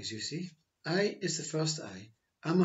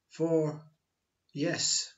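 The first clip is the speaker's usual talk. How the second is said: ordinary delivery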